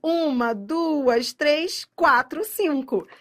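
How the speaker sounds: counting syllables aloud, each number punched. Shown as a demonstration. Teacher counting syllables for the class, emphatic count. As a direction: tick off the syllables one by one. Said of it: "se são quatro".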